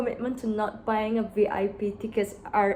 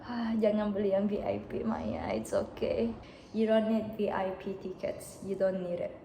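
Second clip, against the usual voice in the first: self-talk. Real, not acted. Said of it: "I have to keep repeating, like, the words to myself".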